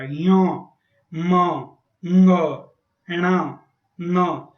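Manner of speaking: य, म, ङ, ण, न each said alone through the nose; nasal letter demo. Shown as a demonstration. Teacher sounds nasal letters so students hear the nose. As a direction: hum each letter out, one by one. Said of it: "नाक से बोला जाएगा।".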